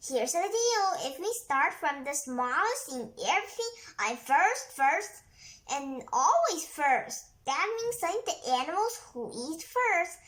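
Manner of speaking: lightly voiced caterpillar, proud and pleased; boastful caterpillar. Caterpillar boasting to the animals, lightly voiced. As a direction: brag that you always come first. Caterpillar bragging, quoted in story.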